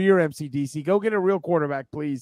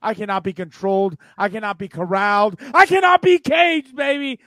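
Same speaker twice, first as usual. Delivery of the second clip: berserk rage. Acted. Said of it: "I'm too amped up".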